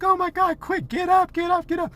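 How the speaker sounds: very high-pitched play-acted squealing; mock urgent panic. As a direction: urge them up in pretend panic. Acts urgent shouts during game.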